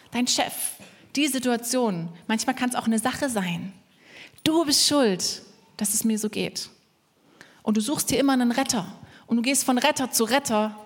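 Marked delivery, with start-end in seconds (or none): 4.4-6.7 pin the blame with theatrical weight; accusing. Acted. Preacher voices someone blaming others, accusing. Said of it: "Und du sagst immer noch".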